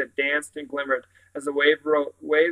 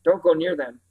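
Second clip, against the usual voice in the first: hysterical; 2 semitones higher than usual. Acted. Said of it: "Jane's voice rose hysterically".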